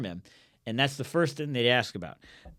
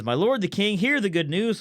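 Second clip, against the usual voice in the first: higher-pitched mock-formal proclamation; proclaiming messenger; 6 semitones higher than usual. Cushite bringing good news to the king, proclaiming. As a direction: announce it grandly to a king.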